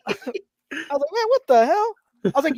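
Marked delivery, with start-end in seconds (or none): 0.9-1.9 mock-offended whine, high and slow; drawn-out retold protest, pitched up; indignant protest. Repeats the hurt protest.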